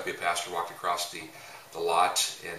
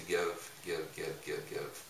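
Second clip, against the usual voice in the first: each give softer until it is a whisper; fading repetition; 7 dB quieter, slower than usual. Shown as a demonstration. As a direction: let the repeated give die away to a whisper. Repeated give fading away.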